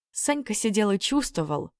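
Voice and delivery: plain reading voice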